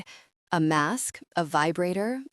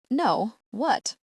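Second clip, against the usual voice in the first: a touch of tension, slightly higher; tightening voice; 5 semitones higher than usual. A narrator's reading. Partner on the phone demanding a proper answer, tightened voice. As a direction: tighten up on the question. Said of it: "I hear the tightening in his voice".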